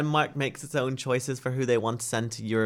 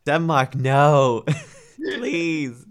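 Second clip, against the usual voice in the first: exasperated plea; 3 semitones higher, 6 dB louder, much slower than usual. Real, not acted. Pleading with Denmark, exasperated.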